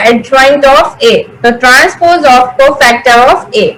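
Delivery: very slow, word-by-word dictation. Shown as a demonstration. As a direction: spell the formula out slowly so students can write. Teacher dictating a formula. (વિદ્યાર્થીઓ લખી શકે તે રીતે ધીમે ધીમે લખાવવું)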